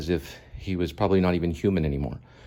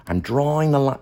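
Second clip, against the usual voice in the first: mock stern officer; 7 semitones higher, 4 dB louder than usual.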